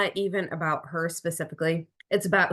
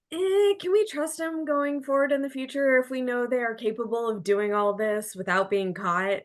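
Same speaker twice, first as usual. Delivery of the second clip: wary doubt; 6 semitones higher than usual. Acted. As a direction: voice a hesitant, distrustful reaction. Voicing a wary reaction.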